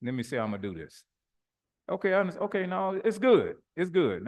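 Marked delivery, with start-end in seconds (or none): 1.9-4.3 higher-pitched brush-off; placating. Acted. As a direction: wave them off, keeping it cool. Acting out calm exit from argument.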